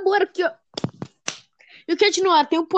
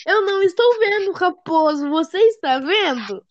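higher cartoon explorer voice; mock Dora asking the viewers; imitating Dora; 5 semitones higher than usual. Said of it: "a Dora vai falar".

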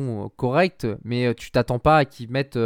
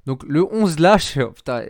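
stifled giggles; 2 semitones higher, 4 dB louder than usual. Real, not acted. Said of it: "faut pas que je rigole par contre".

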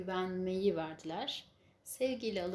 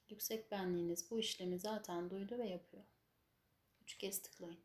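guided meditation. Acted. Guides a healing session.

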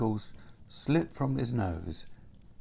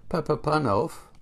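higher-pitched voice calling a name; a raised, summoning call; mysterious voice; 7 semitones higher, 4 dB louder than usual. A narrator's reading. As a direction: call out to him from nowhere. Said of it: "said the voice again".

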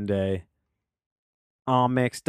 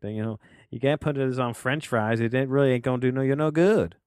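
quick hint of a Southern accent, rising; mock Southern accent; 3 semitones higher than usual. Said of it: "I don't know why I went Southern there".

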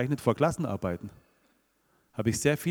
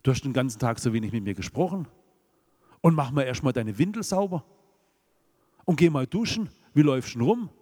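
mock scolding father. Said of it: "Der Vater hat nicht gesagt".

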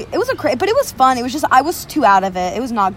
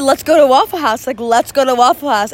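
mildly raised, insistent mock yell; retold yelling; 3 dB louder than usual. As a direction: re-enact a drunken yell, toned down. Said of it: "what were you yelling?".

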